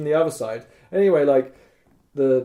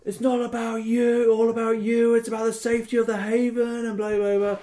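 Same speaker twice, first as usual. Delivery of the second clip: heated argument; 9 semitones higher than usual. Retold or imitated. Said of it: "I'm like".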